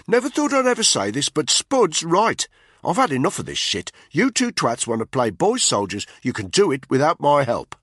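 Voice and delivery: bitter soldier storming off; Tony, contemptuous. A narrator's reading. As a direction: sneer down at the two of them.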